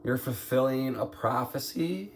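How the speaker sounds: ordinary delivery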